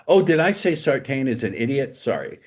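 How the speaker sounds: high mock surprise, dropping on the apology; sarcastic fake apology. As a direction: pretend the insult slipped out.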